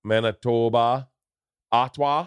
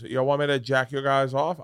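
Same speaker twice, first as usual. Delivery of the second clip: put-on Southern accent; 3 semitones higher than usual. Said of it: "I don't know why I'm doing that accent".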